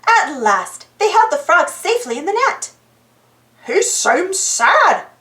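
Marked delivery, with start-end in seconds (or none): 3.6-5.1 sadly. Acted. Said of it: "Goofy said".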